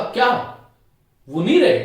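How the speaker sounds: क्या cried out in shock, then वो नहीं रहे?; stunned question; shocked disbelief. Shown as a demonstration. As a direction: gasp out the news of a death. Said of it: "यहां पर अनुतान से पता चलता है".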